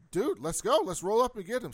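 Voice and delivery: rally a friend to roll out; retold gung-ho urging; eager rallying. The speaker eagerly rallies her in retelling.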